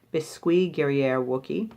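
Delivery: amateur French accent, rising at the end; horrible French accent. Shown as a demonstration. Reviewer reading a lip balm name to viewers, clumsy French accent. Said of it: "my horrible French accent".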